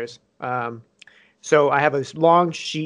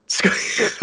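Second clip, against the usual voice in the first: high squeaky voice; 5 semitones higher than usual. Shown as a demonstration. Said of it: "Squeak Toy".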